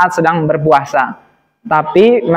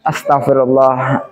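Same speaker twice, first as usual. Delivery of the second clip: lower, lightly voiced self-restraint; mildly acted patience; 4 semitones lower than usual. Mother restraining her anger at her child, mildly patient. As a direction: hold back with a patient sigh of a word. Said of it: "dia sabar".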